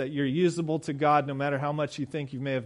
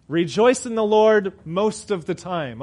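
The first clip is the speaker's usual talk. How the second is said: lightly ironic misquote; mock watered-down verse; 2 semitones higher, 4 dB louder than usual. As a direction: hand them the easy version, tongue in cheek. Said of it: "Wouldn't that be more of a realistic verse".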